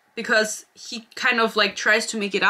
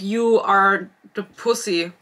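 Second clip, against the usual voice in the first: mock brothers' taunt; slower than usual. Brothers mocking hero.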